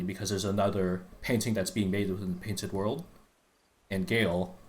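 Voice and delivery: talking while short of breath; running out of air mid-sentence. Real, not acted. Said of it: "I gotta catch my breath".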